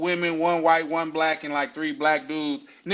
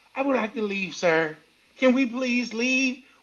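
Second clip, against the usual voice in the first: high-pitched lady voice; 5 semitones higher than usual. Retelling a safari scene, imitating a white lady: imitating a white lady. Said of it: "The white lady".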